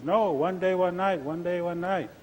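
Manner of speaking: lightly voiced chipmunk holding its ground; arguing chipmunk. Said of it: "they start arguing".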